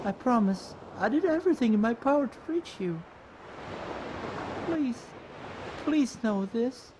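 hushed, heartfelt confession; soft pleading apology. Acted. Character apologizing to Gemma for being late, soft pleading. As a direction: plead softly and sincerely.

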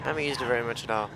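fast, mumbled through a burp; burping the words. Real, not acted. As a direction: rush it out around a burp. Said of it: "Excuse me for that burp".

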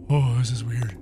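scared whisper. Real, not acted. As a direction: whisper it, uneasy. Creepy hallway.

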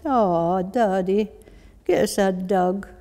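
put-on pleading child in Glasgow accent; strong Glasgow accent. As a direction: wheedle Daddy in a broad Glaswegian voice. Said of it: "that strong Glasgow voice".

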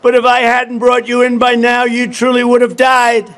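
lightly voiced tender woman; caring woman. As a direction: gently tell the snake it was saved. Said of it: "she cried".

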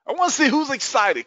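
high, excited call to the crowd; hyped-up rallying call. Real, not acted.

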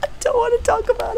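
high squeaky put-on whine; mock whine. Streamer sulking to chat about the level, high mock whine.

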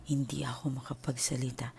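soft breathless whisper. Retold or imitated. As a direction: whisper it like you have no air. Describing being unable to speak.

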